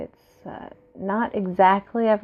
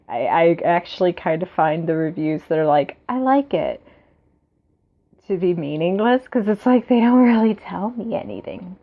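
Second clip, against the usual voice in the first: on a bumpy road. Real, not acted. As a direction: voice shaking from a bumpy ride. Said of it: "Sorry for the shaking".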